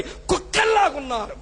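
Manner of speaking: sudden shout of scorn; preacher shouting at a greedy church; shouted rebuke. Real, not acted. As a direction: fling the insult at them. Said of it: "గట్టిగా చెప్పానేమన్నా?".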